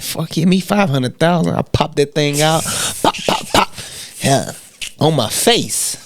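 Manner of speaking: a hint of a New York Jewish voice; New York Jewish accent. Quoting an army buddy in a New York Jewish accent. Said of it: "real Jewish accent, voice, and all".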